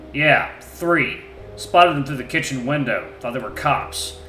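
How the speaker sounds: loud, rough grumbling answers; a surly wolf under questioning; gruff wolf voice. Acted. Wolf recounting.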